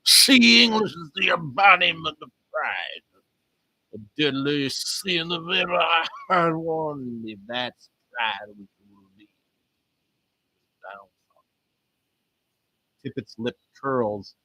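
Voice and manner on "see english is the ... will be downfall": slow, hammed-up Texas preacher; attempted Texas accent. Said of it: "that's not a Texas accent".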